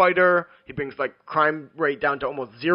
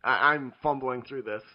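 speaking with the hiccups. Real, not acted. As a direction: talk while hiccuping. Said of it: "I have the hiccups".

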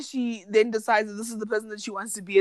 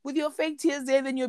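scolding; 3 semitones higher than usual. Pretend. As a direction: demand an answer from a crying man. Scolding the contestant on TV.

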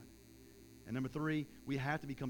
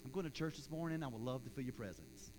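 low-key, softer mock prayer; half-hearted prayer; 3 semitones lower, 7 dB quieter than usual. Preacher mimicking casual churchgoers' prayer, half-hearted and subdued. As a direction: pray politely, without any urgency. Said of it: "But we're like".

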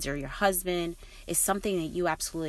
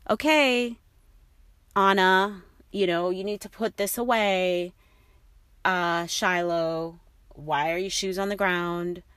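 calm reminder; 3 dB louder than usual. Retold or imitated. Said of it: "in peace, I will say to the kids".

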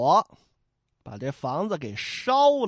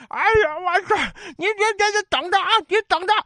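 high, loud, blustering yell while retreating; whiny threat; 13 semitones higher, 5 dB louder, faster than usual. Acted. Beaten waiter fleeing shouts at the heroes, high whiny yell. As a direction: shriek back a coward's threat.

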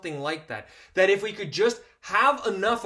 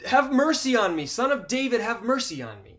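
higher, louder mock cry for mercy; retold desperate scream; 5 semitones higher than usual. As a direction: call out to Jesus, a touch desperate. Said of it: "He screams louder".

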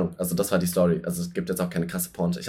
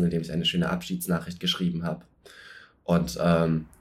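Raucherstimme; 3 semitones lower, 4 dB quieter than usual. Acted. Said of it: "Ist das grad deine sexy Stimme?".

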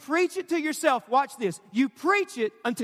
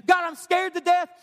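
frightened prayer; 5 semitones higher, 4 dB louder than usual. Acted. Voices a frightened prayer to God.

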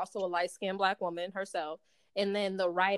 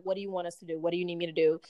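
low-key, calm offer of help; 3 semitones lower, faster than usual. Retold or imitated. Calm makeup assistant asking the actress what she needs, very calm. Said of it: "she was very calm".

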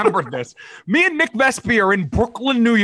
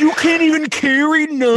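mock scolding; 5 semitones higher than usual. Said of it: "He's just like".

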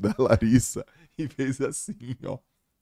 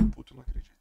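laughing whisper; 11 dB quieter, much faster than usual. Retold or imitated. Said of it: "Rindo, ela fez assim".

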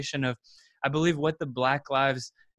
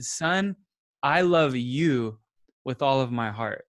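slow, tender and sincere; tender dad reply; slower than usual. Retold or imitated. Dad tenderly reassuring his crying son, slow and sincere. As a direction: tell your hurting son you love him, gently. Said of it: "as if I said".

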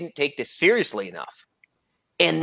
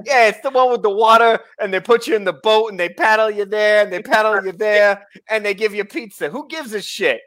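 put-on a light New Jersey accent, a bit higher; 4 semitones higher than usual. Riffing on Venice to his friend, light New Jersey accent. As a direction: lightly play a mouthy New Jersey guy. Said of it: "channel my inner New Jersey here".

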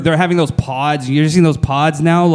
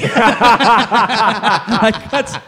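high, slow little-kid imitation; hammed-up sleepy child voice, laughing; mock childish; 5 semitones higher, much slower than usual. Mimicking his co-host who napped at work, mock childish. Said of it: "Is a, a grown-up says".

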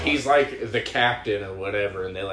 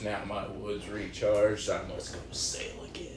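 mock grand exit line; 4 dB quieter than usual. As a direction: deliver it like a lordly captain, trailing off. Retelling a movie character's punchline.

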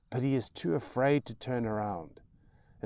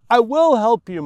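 put-on high, loud boy's promise; child's loud cry; 13 semitones higher, 18 dB louder than usual. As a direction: call it out desperately. Boy shouts reassurance to mother.

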